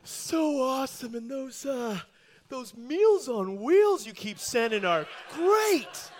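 slow, lightly voiced contented cat; cat praising the Meals on Wheels mice; lazy cat. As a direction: drawl it out, full and pleased. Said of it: "He's like".

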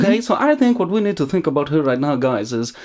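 put-on Thai accent. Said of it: "this is the accent corner that I'm doing".

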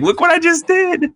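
high, smug show-off voice; smug one-liner brag. Retold or imitated. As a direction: brag like you just nailed it. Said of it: "he just backs away from the mic like".

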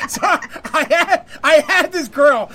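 can't get the words out for laughing. Real, not acted. Laughing through his own story.

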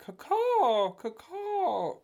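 high throaty caw; shrill screeching bird woman. Retold or imitated. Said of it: "It's more in the throat".

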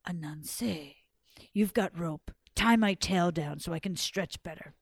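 low snake voice, mildly frustrated; a touch of frustration, pitched low; frustrated python. Acted. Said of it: "he got so frustrated".

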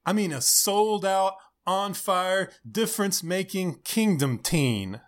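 lightly hyped youth pastor pitch; a hint of on-fire youth leader; upbeat youth pastor. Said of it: "the random youth pastor voice".

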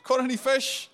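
mock call across the water to fishermen; cheery hail to the boat. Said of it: "he sort of shouts out from, from the shore".

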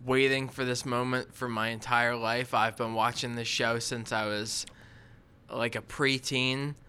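earnest contestant confessional; reality tv confessional. Pretend. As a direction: play it like a sincere reality show contestant. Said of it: "what would be your story if you're, like, being interviewed".

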